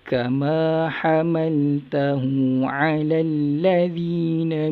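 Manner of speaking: melodic recited verse; lightly chanted recitation; Quran recitation. Shown as a demonstration. Teacher recites verse to class.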